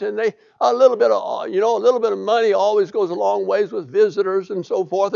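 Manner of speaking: a hint of a fawning servant angling for money; wheedling servant. Servant Gehazi sweet-talking Naaman for gifts, lightly fawning.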